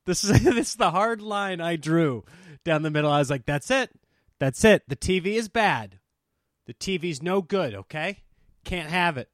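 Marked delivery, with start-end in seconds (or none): 3.5-9.3 lightly voiced stern dad laying down the law; a hint of a scolding father; Eddie Murphy's dad. A dad banning the TV for the household, lightly stern. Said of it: "I felt like Eddie Murphy's dad".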